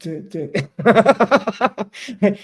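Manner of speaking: a big helpless laugh at the dead line; loud burst of laughter. Real, not acted. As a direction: laugh out loud, caught off guard. Laughs when call drops.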